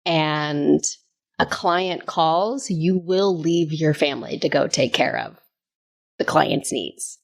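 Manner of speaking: slow, measured imitation of an executive; senior vice president. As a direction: lay down the rule slowly, with pauses. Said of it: "the senior vice president saying".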